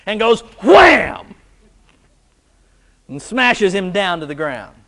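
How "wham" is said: playful shouted wham; a slow, hammed-up cartoon wham; mock wham. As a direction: slam it out like a cartoon hit. Acting out cartoon smash.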